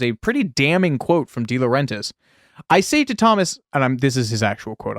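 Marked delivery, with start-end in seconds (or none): 2.7-3.6 a hint of a thick Italian accent, started then dropped. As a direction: begin the Italian producer voice, higher. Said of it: "I'm not doing an offensive accent".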